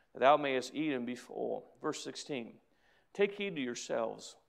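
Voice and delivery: measured, reverent reading of the verses; scripture reading. Acted. Pastor reads the verses to his church, reverent.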